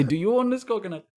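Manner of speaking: high, mock-polite question; lightly voiced polite stranger; quizzical high voice. Quoting their coconut search.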